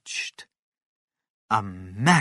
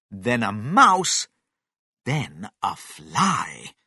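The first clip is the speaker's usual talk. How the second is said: ordinary delivery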